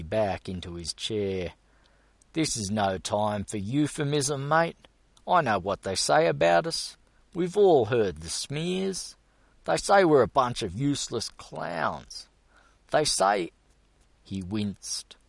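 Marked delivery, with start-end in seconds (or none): 2.3-13.5 high, loud aggrieved complaint; indignant rant. A narrator's reading. Gus complaining to Fenton about rumours, high indignant rant. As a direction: vent about the smears.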